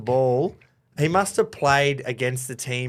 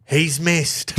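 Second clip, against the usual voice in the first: excited shout; 3 semitones higher than usual. Real, not acted. Shouting the miss.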